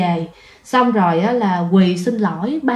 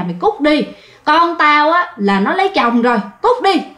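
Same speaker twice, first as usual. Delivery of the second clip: retold angry yell, higher; old man chasing son-in-law away, high angry yell; grandfather yelling; 5 semitones higher than usual. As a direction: shout him out of the house, pitch rising. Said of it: "là chửi quá trời luôn".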